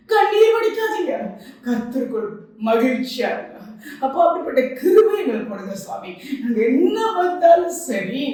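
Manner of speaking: earnest pleading prayer to God; fervent prayer. Acted. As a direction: pray aloud for the women. Leads a prayer. (உருக்கமான ஜெபம்)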